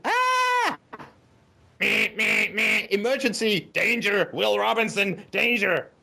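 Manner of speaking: robot alarm. Pretend. Mocking a robot warning the couple of danger. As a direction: sound the alarm like a sci-fi robot.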